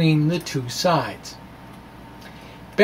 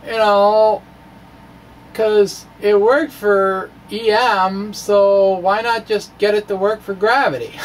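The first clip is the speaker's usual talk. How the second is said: naive guesser; 2 semitones higher, 4 dB louder than usual. Retold or imitated. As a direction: play the untrained mind guessing eagerly. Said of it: "They say".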